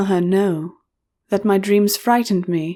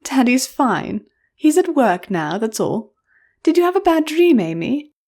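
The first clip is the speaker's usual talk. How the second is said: tender mother; 6 semitones higher than usual. A narrator's reading. Mother comforting.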